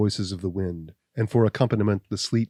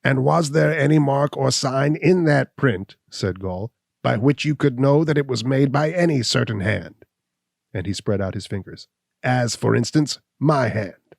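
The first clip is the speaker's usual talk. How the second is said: higher, louder, cocky hunchback voice; hunchback Gall, sneering; 5 semitones higher, 5 dB louder than usual. Acted. Gall taunting Abner, a higher, louder sneering voice. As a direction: voice Gall as he mocks the suspicion.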